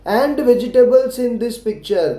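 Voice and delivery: very slow, each word laid out; slow classroom dictation; slow model sentence. Shown as a demonstration. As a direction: read it slowly so children can repeat. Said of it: "लेकिन मैंने आपके लिए लिखा है, देखिए".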